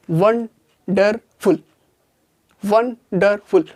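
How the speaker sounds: वंडरफुल stretched slowly into won-der-ful; slowly, syllable by syllable. Shown as a demonstration. Teacher showing class how to say वंडरफुल slowly. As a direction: draw out वंडरफुल beat by beat. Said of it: "इसको धीरे धीरे बोलने की".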